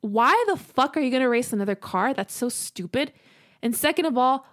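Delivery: mildly heated, incredulous rant; upset. Retold or imitated. Girlfriend venting at boyfriend for risking their lives racing, upset. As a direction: vent in exasperation at the stupidity of it. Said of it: "that literally upset me".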